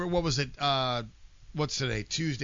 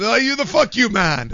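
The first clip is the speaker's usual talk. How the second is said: loud, higher, slow fan question; excited fan; 6 semitones higher, 10 dB louder than usual. Pretend. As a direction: ask it like a delighted stranger. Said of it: "imagined fan asking".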